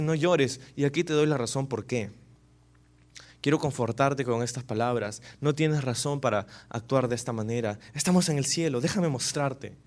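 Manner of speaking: a soft, reassuring consolation; gentle comfort. Acted. Elder consoling the weeping John, softly reassuring. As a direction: comfort him and give the reason. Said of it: "Le dice".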